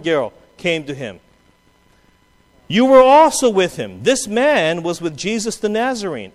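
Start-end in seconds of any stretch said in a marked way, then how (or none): 2.7-6.3 accusing. Acted. Servant girl accusing Peter.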